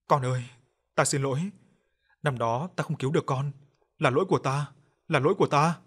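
a touch of tearful choke, voice straining; mild choked-up apology, pushing through. Acted. Father apologizes to his dead son, mildly choked. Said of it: "Giọng ông nghẹn ngào".

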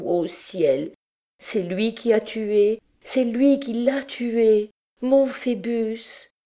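woman's accusation rising in distress, lightly acted; anguished, building to sobs. A narrator's reading. Victim accusing the priest of killing Phébus, anguish mounting. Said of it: "éclatant en sanglots".

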